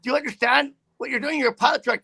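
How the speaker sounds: yelling at him like he nearly killed people; angry shouting. Retold or imitated. Trucker yelling at the careless pilot truck driver, shouting angrily. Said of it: "I said".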